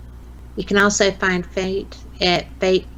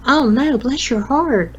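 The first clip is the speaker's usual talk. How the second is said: sympathetic inflection; 5 semitones higher, 3 dB louder than usual. Retold or imitated. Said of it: "it's all about inflection".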